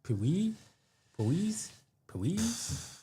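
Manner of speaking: sing-song teasing rise; rising playful. Real, not acted. Repeating the name, rising.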